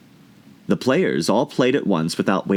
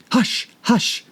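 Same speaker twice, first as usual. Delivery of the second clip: low hurried rabbit. A narrator's reading. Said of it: "in a low, hurried tone".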